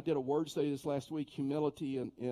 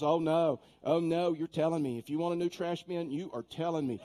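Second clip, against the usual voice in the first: insistent mock demand; 2 semitones higher, 4 dB louder than usual. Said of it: "She goes".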